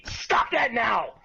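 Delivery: stern shout. Real, not acted. Ranting at lap cars.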